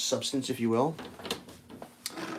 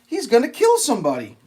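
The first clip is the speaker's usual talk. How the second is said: retold panic, dragged out; alarmed; 7 semitones higher than usual. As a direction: driver alarmed at the careless trucker. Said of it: "And I'm like".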